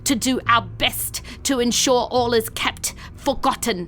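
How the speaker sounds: hissing reply. Acted. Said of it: "in the hiss of response".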